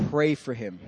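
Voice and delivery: low, soft voice of God; quiet, grave instruction; solemn divine command. Retold or imitated. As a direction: repeat the order gently, deep and hushed. God repeats command, solemnly retold.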